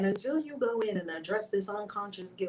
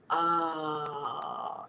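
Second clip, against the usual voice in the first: choked cry; 5 semitones lower than usual. Real, not acted. Moved to tears.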